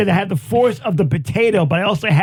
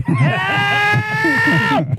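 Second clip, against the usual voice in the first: mock cry for help; 12 semitones higher than usual. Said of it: "Say that right there".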